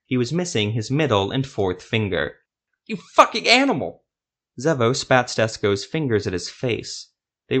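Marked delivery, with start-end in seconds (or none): 2.8-4.0 fast, high, loud curse; maimed sorcerer cursing the Witcher, enraged yell; furious shout. Acted. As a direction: spit the insult out in rage. Maimed sorcerer curses his attacker.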